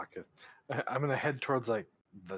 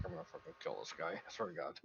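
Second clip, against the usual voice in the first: low, fast angry mutter; muttered threat; 5 semitones lower, 4 dB quieter, faster than usual. Retold or imitated. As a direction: grumble it through pursed lips. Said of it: "I am like, like, his lips are, like, pursed".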